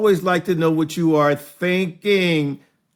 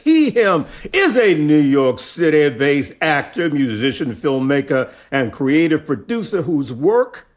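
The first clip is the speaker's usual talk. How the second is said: announcer voice. Acted. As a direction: read it like a ring announcer. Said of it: "try to use my announcer voice".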